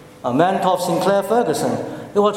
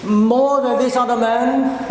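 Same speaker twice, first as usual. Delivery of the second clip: mock boast; 4 semitones higher than usual. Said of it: "He cannot say".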